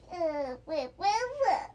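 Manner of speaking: childish fake wailing "wah wah"; mock crying. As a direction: imitate crybabies, half-hearted and playful. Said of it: "they started crying".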